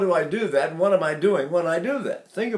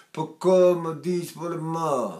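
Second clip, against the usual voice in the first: Neapolitan dialect; slower than usual. Shown as a demonstration. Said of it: "if you know anything about their dialect".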